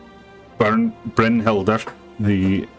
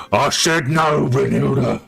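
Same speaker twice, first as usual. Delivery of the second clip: firm refusal; 7 semitones higher than usual. Acted. Chief repeats refusal, shaman interrupting.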